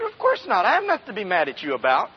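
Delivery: snappy, irritated denial, then a fast rush; curt and defensive, brushing her off; sharp denial that shuts the question down; bad tone. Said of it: "I did not say that in a very good tone".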